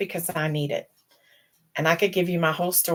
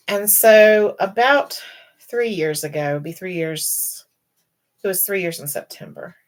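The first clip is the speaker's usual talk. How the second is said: holding back tears; 2 semitones higher, 4 dB louder than usual. Real, not acted. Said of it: "okay, I'm gonna cry".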